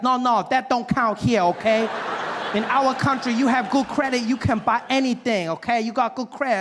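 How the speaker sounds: dismissive salesman in a put-on Asian accent. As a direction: lay down the rules in a mock Asian accent. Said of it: "there's this Asian gentleman helping me".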